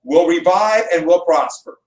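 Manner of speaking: slow, measured oratory; speech reading. Acted. Teacher reading Roosevelt's inaugural lines to a class, slow oratory. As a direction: read it out deliberately, phrase by phrase.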